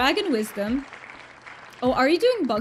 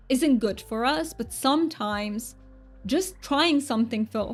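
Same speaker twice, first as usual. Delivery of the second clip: put-on playful go at a British accent; amateur British accent. Streamer chatting to viewers after a wheel spin, amateur British accent. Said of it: "British accent that I'm doing".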